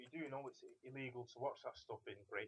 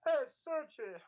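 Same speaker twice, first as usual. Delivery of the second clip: hammed-up Russian accent, much higher and louder; mock gay Russian accent; 10 dB louder, slower than usual. Asked for a gay Russian accent, he hams up a loud, high greeting. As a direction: call out a name in a camp Russian accent. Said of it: "How do you do a gay Russian accent now?".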